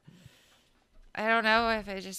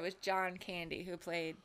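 hushed whisper; 6 dB quieter than usual. Real, not acted. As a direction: whisper it like a secret. Unvoiced whisper.

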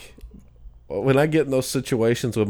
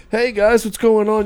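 high, loud cheery host voice; TV host greeting; 12 semitones higher, 5 dB louder than usual. Retold or imitated. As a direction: greet like a nature show host. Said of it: "he's just like".

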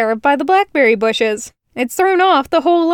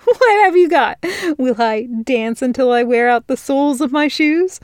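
giggling; 3 semitones higher than usual. Acted. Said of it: "she said through her giggles".

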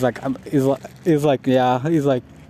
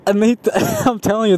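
quick, high words through a laugh; real giggle while telling the story; 7 semitones higher, faster than usual. Real, not acted. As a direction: break up mid-sentence.

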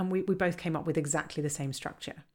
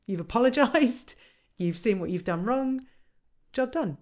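quoted customer; 6 semitones higher, 5 dB louder than usual. Retold or imitated. Quoting satisfied customer.

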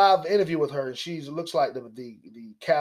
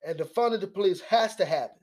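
higher, lightly voiced mock of her; mock statement; 4 semitones higher than usual. Commentator lightly mimics the congresswoman's demands. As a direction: recite her demands mockingly. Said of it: "That's what she stated".

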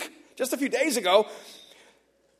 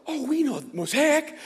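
high, drawn-out retold "Mosaic", rising at the end; dawning recognition; 5 semitones higher, slower than usual. Location managers recognising the neighbour's church, high-pitched surprised recognition. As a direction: stretch it out as the penny drops.

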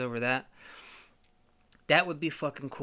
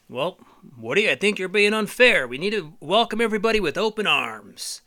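Buzz preaching welcome; 6 semitones higher, 7 dB louder than usual. Acted. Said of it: "Buzz answers".

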